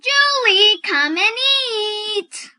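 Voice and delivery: a mother's call from down the street; calling from afar. Acted. Mother calling Julie from far down the street for supper. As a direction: call her home from far away.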